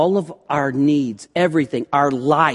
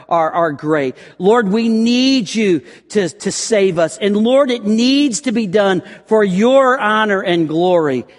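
louder heartfelt prayer of surrender; earnest prayer; 4 semitones higher, 4 dB louder than usual. Acted. Preacher voicing a prayer of surrender, a bit louder. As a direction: lay it all out before God.

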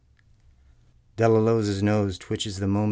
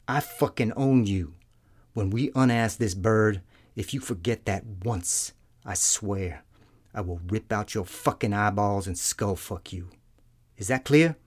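menacing threat building to shout. A narrator's reading. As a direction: lean in, then explode on the last words. Sergeant threatens colonel.

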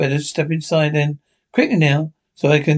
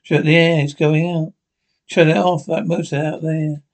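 panicked pleading. Acted. Trapped man begs to stop pump.

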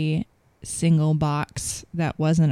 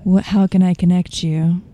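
bright operator greeting, louder; 6 dB louder than usual. Shown as a demonstration. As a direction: customer service voice on the phone. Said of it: "Your operator voice".

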